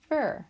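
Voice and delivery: ver said apart, high and loud; stressed syllable. Shown as a demonstration. Teacher sounding out "Ver" for the class. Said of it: "We can hear it".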